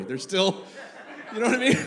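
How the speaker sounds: ordinary talk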